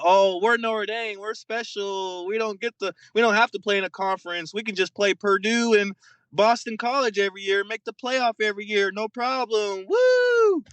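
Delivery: lightly voiced spoiled princess showing off; mock smug Notre Dame. Podcaster mocks Notre Dame as entitled, hammed-up smug boast.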